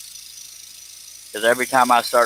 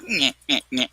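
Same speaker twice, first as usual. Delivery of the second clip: cartoon nyeh; 3 semitones higher, 3 dB quieter than usual. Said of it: "I wasn't trying to be Bugs Bunny".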